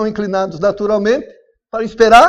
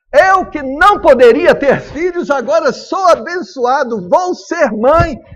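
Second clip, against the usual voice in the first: joyful disbelief; 5 semitones higher, 5 dB louder than usual. Acted. Barren woman promised a son.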